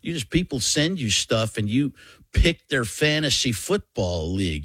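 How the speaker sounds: rising excited coach voice; Jon Gruden impression. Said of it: "He's like".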